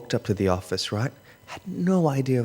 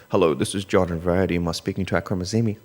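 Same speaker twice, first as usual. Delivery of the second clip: principal's voice; 3 semitones lower, faster than usual. Retold or imitated. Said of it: "he has that principal's voice down pat".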